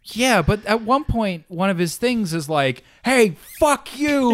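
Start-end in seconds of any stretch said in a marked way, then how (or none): 3.1-4.3 high, slow, drawn-out mock yell; play-acted fury, stretched out; mock angry outburst. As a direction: act out a hammed-up angry rant. Acts out character's angry rehearsal.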